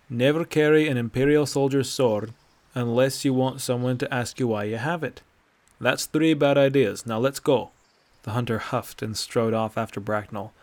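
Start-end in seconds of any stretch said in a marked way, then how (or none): 0.1-7.7 put-on loud, lecturing old man voice; stern old Nord. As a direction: lay down the rule firmly. Bracknell lecturing the hunter.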